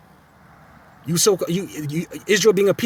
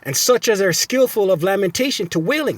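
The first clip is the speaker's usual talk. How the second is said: preaching scripture; 3 semitones higher than usual. Acted. Reading scripture.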